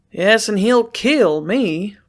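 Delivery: groaned. A narrator's reading. Sloane to Lucy, groaning slowly in dismay. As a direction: drag the words out in despair. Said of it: "groaned Sloane".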